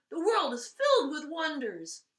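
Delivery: loud, high delighted cry; overjoyed Tsar exclaiming in wonder. Acted. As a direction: marvel out loud. Tsar delighted after laughing.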